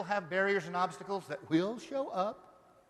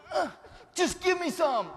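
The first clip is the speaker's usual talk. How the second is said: higher, louder laughing plea; mock pleading lady; 9 semitones higher, 6 dB louder than usual. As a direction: beg like a greedy lady, laughing. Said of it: "this lady over here going".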